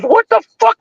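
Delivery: very high, incredulous exclamation; retold shocked outburst. Uncle finds his son hanging in the closet, shocked.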